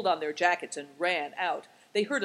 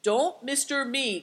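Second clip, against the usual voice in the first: raised, slow protest; higher, drawn-out retort; crying out; 7 semitones higher than usual. A narrator's reading. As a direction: object emphatically. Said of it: "cried the llama".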